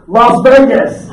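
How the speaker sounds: slow and loud, cracking up; girl's answer to the teacher, laughed out; laughing punchline. Retold or imitated. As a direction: drag it out while laughing.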